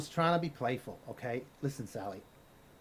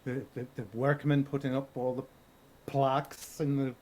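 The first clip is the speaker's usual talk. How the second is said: put-on Irish accent. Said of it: "now you're Irish".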